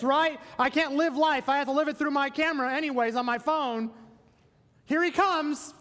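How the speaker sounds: high, eager, breathless crowd fan; giddy spectator gushing at the arrival; excited onlooker. Pretend. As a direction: play a fan who can't wait to see him. Acting eager crowd awaiting arrival.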